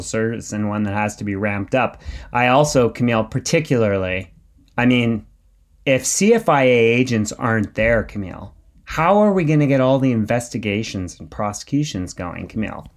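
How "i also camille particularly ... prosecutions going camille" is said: pointed question, pausing for effect; sarcastic. Real, not acted. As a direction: feign concern with dry sarcasm. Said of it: "Do I detect some sarcasm?".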